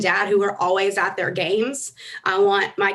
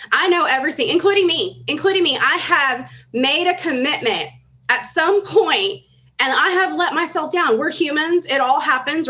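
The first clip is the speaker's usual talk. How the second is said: fervent; 5 semitones higher than usual. Real, not acted. Fervent confession to crowd.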